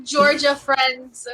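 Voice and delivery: laughing, playfully hurt accusation; mock betrayed teasing. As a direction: tease a friend for ditching you. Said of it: "I mess with them about, like, being famous".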